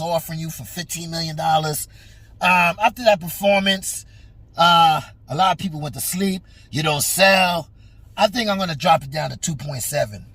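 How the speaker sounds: lightly voiced smug promoter lowballing; a hint of a sly old promoter cutting the offer; mock Bob Arum. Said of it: "Bob comes along and says".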